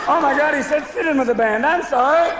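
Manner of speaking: acted dismay rising to a high pitch; mock mortified apology. Caller hears of last night's disgrace, mock mortified.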